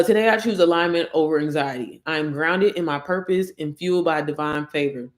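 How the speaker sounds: measured affirmation reading. Acted. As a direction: read it like a spoken declaration of faith. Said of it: "let me just read it".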